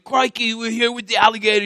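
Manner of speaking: quick, lightly imitated Australian croc-show host; Australian accent. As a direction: toss off a rough Australian accent. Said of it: "I do an Australian".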